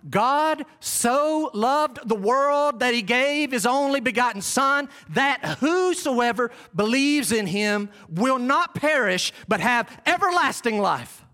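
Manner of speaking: slow, deliberate Bible reading; scripture recitation. Acted. Preacher quoting God's truth to the congregation, slow scripture recitation. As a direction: recite the verse slowly, phrase by phrase.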